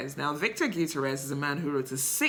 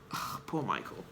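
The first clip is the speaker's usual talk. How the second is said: emotional; 7 semitones lower, 11 dB quieter than usual. Real, not acted. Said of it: "I'm getting emotional".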